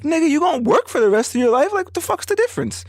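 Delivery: high, rising heated challenge; challenging retort. Retold or imitated. To his friend about working for life, high heated challenge. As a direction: throw his logic back at him.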